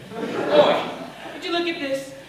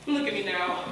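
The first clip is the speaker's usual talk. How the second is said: downcast; 5 semitones lower, 5 dB quieter than usual. Acted. Pleading, first a quiet lament.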